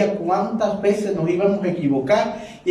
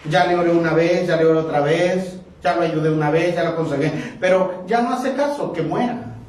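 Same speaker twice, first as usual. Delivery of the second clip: mock harsh leader. Mocking a harsh pastor.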